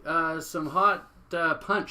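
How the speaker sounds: high, loud, syrupy hostess voice with a slow drawn-out hot; sweet hostess offer. Retold or imitated. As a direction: play the overly sweet neighbour offering punch. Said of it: "She goes".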